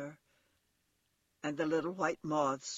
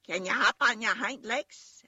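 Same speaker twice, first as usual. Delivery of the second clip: louder, higher wild-rabbit voice; furry rabbit asking; 6 semitones higher, 8 dB louder than usual. A narrator's reading. Furry rabbit challenges the toy to hop, loudly and higher. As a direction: challenge him, loud and high. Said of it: "asked the furry rabbit".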